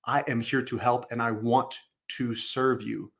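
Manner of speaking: slow, willing helper tone; eager to help. Shown as a demonstration. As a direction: sound like you want to serve. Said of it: "energy and tone of voice".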